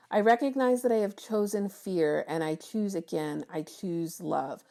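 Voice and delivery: affirmation. Acted. Reading the card's affirmation aloud.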